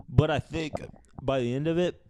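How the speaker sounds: talking through burps; words pushed out on a burp. Real, not acted. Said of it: "I'm talking through burps".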